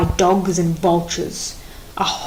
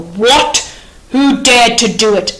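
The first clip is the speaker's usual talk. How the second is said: louder, sharp outraged question; angry demand; 2 semitones higher, 5 dB louder than usual. Acted. King hears burial defied.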